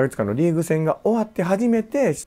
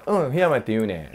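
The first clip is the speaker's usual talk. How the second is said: own-pitch Kansai dialect reply, lightly re-enacted; 関西弁. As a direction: say 檜山って言うね with Kansai intonation. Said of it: "こっちは関西弁で。". (関西弁のイントネーションで普通の高さに返す)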